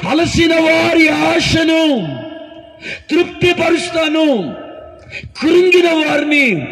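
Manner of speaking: slow ringing call, stretched words; proclaimed verse. Shown as a demonstration. Preacher repeating the verse to the church, slow and ringing. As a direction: proclaim each phrase slowly. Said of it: "సాక్ష్యం చెప్పాల్సి ఉంది".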